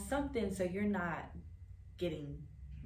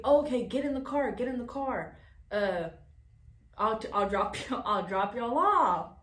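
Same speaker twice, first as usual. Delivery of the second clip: mock pushy stranger; 3 semitones higher, 5 dB louder than usual. Stranger's voice in story.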